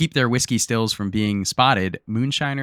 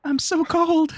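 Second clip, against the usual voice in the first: talking toilet; much slower than usual. Pretend. Toilet voice joke.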